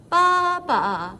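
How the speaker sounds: loud, wavering baas; bleating sheep. Acted. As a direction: bleat like a lamb. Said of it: "she makes a sound like this".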